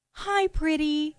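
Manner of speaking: slow, soft coo to a pet. Retold or imitated. Boyfriend greeting the cat, slow and soft. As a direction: stretch it out sweetly for the cat. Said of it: "he goes".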